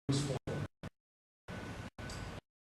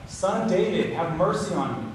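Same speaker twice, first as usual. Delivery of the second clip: raised plea, a bit louder and higher; crying out loud; 3 semitones higher, 6 dB louder than usual. Retold or imitated. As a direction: call out for mercy, voice lifted. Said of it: "he begins to cry out loud".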